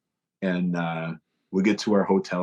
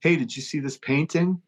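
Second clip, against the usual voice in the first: higher, sing-song bait of a question; fake innocent question; 7 semitones higher than usual. Bandmate baiting a friend with a fake question, high and innocent. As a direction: lure him to turn and look.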